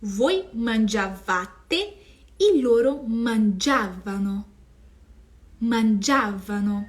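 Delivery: mangiavano slowed, stress held on "gia"; stress demonstration. Shown as a demonstration. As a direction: slowly mark the stressed syllable in mangiavano. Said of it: "aonde vai a sílaba tônica do verbo".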